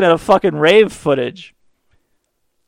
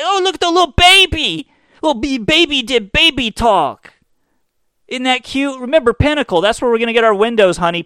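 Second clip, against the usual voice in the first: put-on high cooing baby-talk adult; doting parent voice; 8 semitones higher than usual. Parent gushing at the TV ad, high cooing voice. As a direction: gush over the cute kid.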